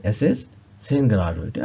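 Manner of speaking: Es ist zehn Grad heute spoken very slowly; slow model phrase. Shown as a demonstration. Teacher recapping German sentence, very slow. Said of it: "teacher models phrase".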